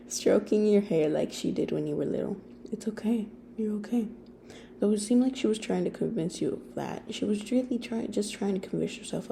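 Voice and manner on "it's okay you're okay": whispered reassurance; soft shushing. Acted. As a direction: hush the child gently in a whisper. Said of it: "she shushed you softly".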